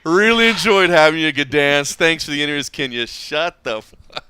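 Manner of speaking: hammed-up Scouse fighter voice; Darren Till impression. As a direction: mimic the fighter brushing off drunk fans. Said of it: "but also like".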